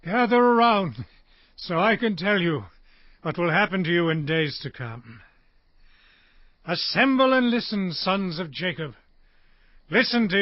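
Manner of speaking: projected summons, settling to a measured tone; calling out. Acted. Jacob summons his sons to hear the future, commanding. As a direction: call them in, then grow grave. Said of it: "Jacob called for his sons".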